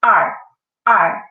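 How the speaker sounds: er with the tongue rolled back; demonstrated er. Shown as a demonstration. Teacher demonstrating er to the class, slowly and clearly. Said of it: "see how I say".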